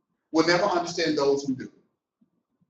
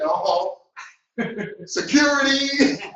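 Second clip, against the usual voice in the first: calling for security; 8 semitones higher, 3 dB louder, much slower than usual. Retold or imitated.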